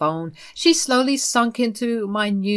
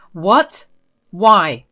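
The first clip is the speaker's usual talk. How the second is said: sharp, louder startled "What? Why?"; shocked disbelief; 8 dB louder than usual. Acted. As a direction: blurt it out in shock. Wife reveals dog was dumped.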